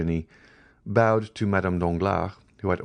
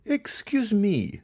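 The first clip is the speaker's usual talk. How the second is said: much higher, slow and unyielding; implacable; much slower than usual. A narrator's reading. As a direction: cut in coldly, drawing out each word. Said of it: "said the implacable young girl".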